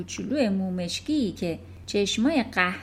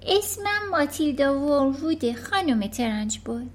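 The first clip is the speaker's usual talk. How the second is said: put-on higher, polite small-girl voice; little girl; 5 semitones higher than usual. Matilda answering the headmistress, polite and small. Matilda gives her name.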